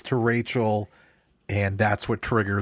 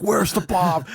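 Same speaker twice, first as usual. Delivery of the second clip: yelling a Batman line; 9 semitones higher, 4 dB louder than usual. Retold or imitated. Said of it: "just yelling".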